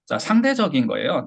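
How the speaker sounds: normal talking voice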